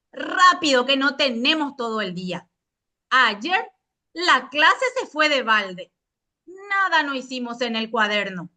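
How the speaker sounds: curt, bossy schoolteacher; strict teacher. Pretend. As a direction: snap orders at the class. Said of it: "léase con tono cortante y autoritario".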